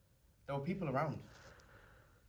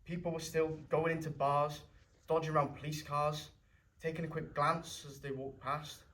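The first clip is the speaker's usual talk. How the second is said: louder, bitter rising anger; angry; 4 semitones higher, 7 dB louder than usual. Acted. Grieving brother raging at people walking past, angry. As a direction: spit out the anger at passers-by. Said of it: "you were really angry".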